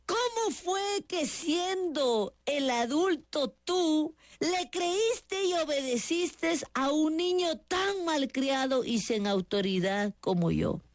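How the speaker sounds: high, slow, pleading outburst; son's strained, drawn-out outcry; mild mock yell. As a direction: cry out at your mother in despair. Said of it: "interrumpió a la mamá gritándole".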